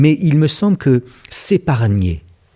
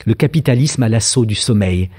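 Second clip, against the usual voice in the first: normal talking voice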